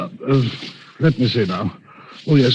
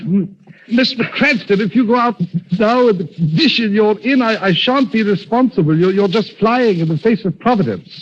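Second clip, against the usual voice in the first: higher, stammering alarm; flustered protest; 6 semitones higher than usual. Acted. Butler frets as the injured Cranston insists on leaving. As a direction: plead with him not to go.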